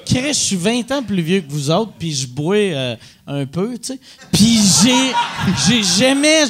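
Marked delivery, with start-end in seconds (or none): 4.3-6.5 laughing shout. Real, not acted. Laughing outburst.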